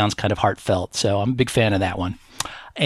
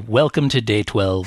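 slow announced quote. Retold or imitated. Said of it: "they just jump straight to".

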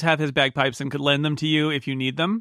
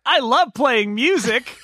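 high, loud, drawn-out glee; over-the-top eager musician; excited bard character; 10 semitones higher, 5 dB louder, slower than usual. Acted. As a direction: gush with delight at the top of your range. Cool Cat delighted by duet idea.

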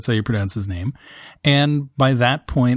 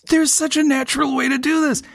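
imagined thought; 13 semitones higher than usual. Retold or imitated. Retelling own thought, high voice.

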